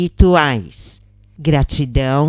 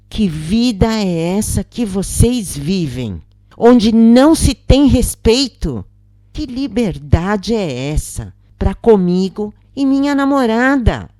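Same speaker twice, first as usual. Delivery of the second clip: higher, rising indignant protest; angry retort; 6 semitones higher than usual. Acted. Man confronting roommate about his girlfriend, indignant and rising. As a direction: push the pitch up in mounting indignation. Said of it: "Eu me enfureci e disse".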